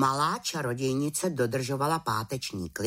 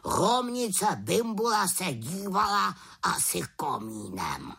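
a touch higher raven voice; lightly voiced raven; 6 semitones higher than usual. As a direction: grumble like a know-all raven. Abraxas explains. (havran Abraxas vysvětluje, lehce vyšším hlasem)

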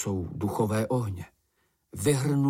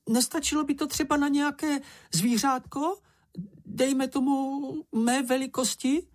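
much higher little creature voice, slowing down; Sniff's hopeful plea. Acted. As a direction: coax it sweetly, hoping for a share. Sniff hopes for the oil.

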